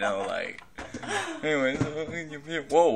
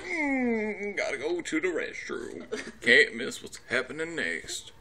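strained hum easing into words; mock uncomfortable; 2 semitones higher than usual. Voicing a guy needing the restroom, playfully uncomfortable. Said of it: "This guy's uncomfortable".

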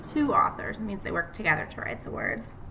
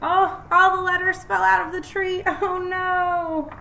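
fast, louder, higher exclaiming; excited dismay; 9 semitones higher, 7 dB louder than usual. Acted. Teacher reading to kids, excited fast exclamation over the fallen letters. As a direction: sound thrilled and alarmed for the kids.

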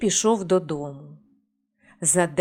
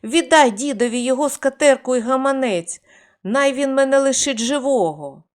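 higher, louder desperate plea; shouting for mercy; 4 semitones higher, 4 dB louder than usual. Acted. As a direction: yell at his wife to give it back. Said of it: "Корчмар кричить". (корчмар кричить жінці, благаючи пощади)

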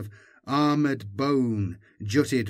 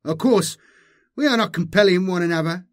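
chuckling Magus; 7 semitones higher, 6 dB louder, faster than usual. A narrator's reading. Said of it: "The Magus chuckled".

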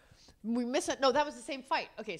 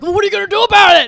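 loud, fast, higher demand; mock demanding; 9 semitones higher, 18 dB louder, faster than usual. Mimicking husband pressing wife for a plan, loud and fast. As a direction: fire the question at her impatiently. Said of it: "And you're like".

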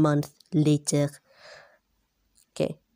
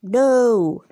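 loud high cry of defeat; a hammed-up No shouted by the beaten boss; anguished character shout; 5 semitones higher, 5 dB louder than usual. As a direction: cry out in loss.

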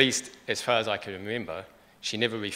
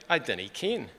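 a light Scottish lilt on dinna ken; mild Scottish accent; 3 semitones higher than usual. Retold or imitated. Son quoting his Scottish mum, lightly Scottish accent. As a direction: quote Mum in a touch of Scots. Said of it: "she would say".

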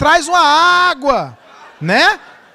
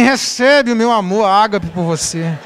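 lightly sugary voice handing over water; lightly sweetened delivery to the wife; sweet-talking wife; 3 semitones lower than usual. Retold or imitated. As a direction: offer it sweetly, a little lower. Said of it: "chega e fala assim".

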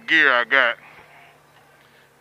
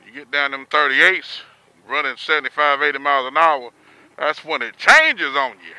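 muffled through a full helmet; talking inside a motorcycle helmet. Real, not acted. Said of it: "I got the full helmet on".

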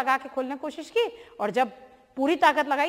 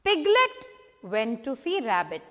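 slow, clear storybook reading; much slower than usual. Shown as a demonstration. Teacher reading a story line slowly to children. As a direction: read each word out slowly for little ones. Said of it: "teacher reading slowly for children".

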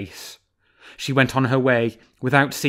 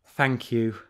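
gentle. Acted. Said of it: "said Renard gently".

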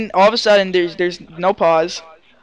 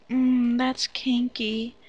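intrigued tease; 3 semitones higher, 9 dB quieter, much slower than usual. Retold or imitated. Acted reply to a suggestive line.

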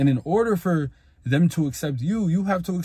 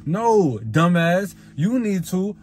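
scolding retort; 5 semitones higher, 4 dB louder, slower than usual. Real, not acted. Scolding an imagined listener.

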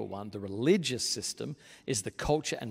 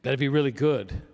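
mock anxious religiosity; 9 dB louder than usual. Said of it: "one of the overreactions is".

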